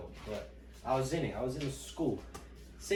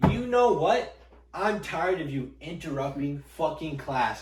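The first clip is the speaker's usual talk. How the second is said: loud, high outburst of a teacher losing patience; angry teacher; 4 semitones higher, 9 dB louder, slower than usual. Retold or imitated. Teacher to coughing student mid-lecture, loud exasperated anger. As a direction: blow up, dragging out the scolding slowly.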